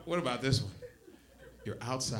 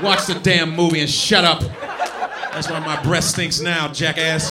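put-on irritated boyfriend; 4 dB louder than usual. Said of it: "Don't ask him no questions".

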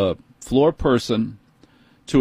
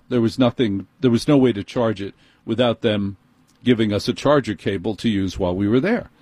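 normal talking voice

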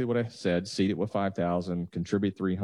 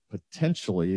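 "potentially" set off with emphasis; stress on POTENTIALLY. Real, not acted. Adviser hedging projected amounts, stress on "potentially". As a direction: lean on the word "potentially". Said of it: "I wanna stress the word potentially".

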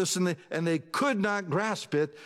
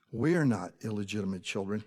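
insinuating taunt; 7 semitones lower than usual. Retold or imitated. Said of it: "Hint, hint, wink, wink".

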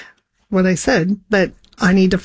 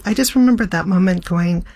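ordinary talk, nothing marked

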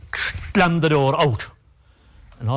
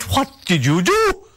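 high, startled demand; sharp, frightened question; alarmed question; 12 semitones higher than usual. Retold or imitated. Mother demanding what the uncle did, high and alarmed. Mother hearing the crying outside.

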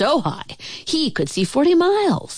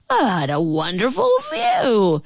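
awed, stretched-out delight; delighted exclamation; 3 semitones higher than usual. Acted. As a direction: savor it grandly. Yertle admires view from pile.

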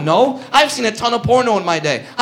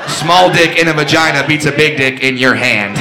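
lower, shouted victory taunt; shouted punchline; 5 semitones lower than usual. Retold or imitated. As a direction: slam the comeback home.

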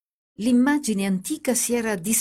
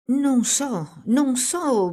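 put-on higher, stammering child's fear; a child's frightened stammer, pitched up; 6 semitones higher, much slower than usual. A narrator's reading. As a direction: back away, scared, stuttering. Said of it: "balbettò il bambino impaurito".

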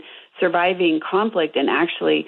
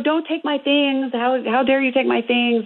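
put-on upset teen daughter; 7 semitones higher than usual. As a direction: imitate an indignant teenage daughter. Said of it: "so she's upset".

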